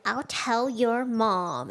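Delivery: slow, smug "I'll tell your mom"; smug threat. Retold or imitated. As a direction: drag it out like a trump card. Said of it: "I'll be like".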